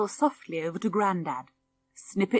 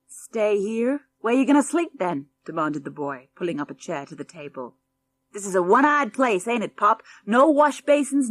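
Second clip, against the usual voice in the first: rude brat; 4 dB louder than usual. Acted. Spoiled boy mocking the farmhouse, sneering. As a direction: sneer at the country house.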